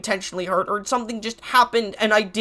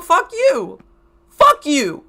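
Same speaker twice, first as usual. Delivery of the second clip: a tearful, raised fuck you, thrown straight at the haters; angry; 5 semitones higher, 3 dB louder, much slower than usual. Real, not acted. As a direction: spit it out, fed up and hurt. Furious at hateful commenters.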